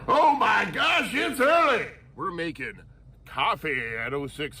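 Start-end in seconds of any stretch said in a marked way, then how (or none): 0.1-1.9 mock whiny complaint. Mock complaint about the hour.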